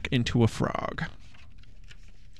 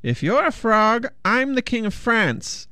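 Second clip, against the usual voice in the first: scoffing witch; 10 semitones higher than usual. A narrator's reading. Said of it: "said the witch".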